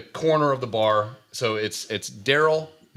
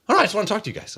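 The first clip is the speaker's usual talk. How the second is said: lightly voiced young woman, pitched up; high, innocent mock-female reply; imitating college girl; 7 semitones higher, faster than usual. College girl insisting she just wants to talk, lightly imitated in higher pitch.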